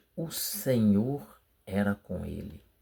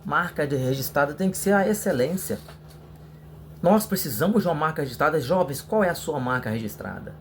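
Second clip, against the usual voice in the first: sample sermon opening; 3 semitones higher than usual. Shown as a demonstration. Preacher showing students how to open a youth lesson, lightly preached. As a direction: open the talk like a youth leader addressing the brothers. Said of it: "Então você pode iniciar assim".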